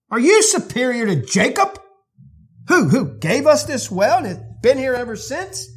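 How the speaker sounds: indignant, challenging pushback; scornful retort. Retold or imitated. Samaritan woman scorning Jesus, indignant and challenging. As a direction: put him in his place. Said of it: "her scorn is elevated".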